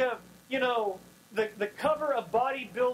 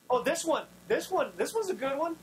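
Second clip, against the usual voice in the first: eager Samuel; 3 semitones higher than usual. Retold or imitated. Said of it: "he's like".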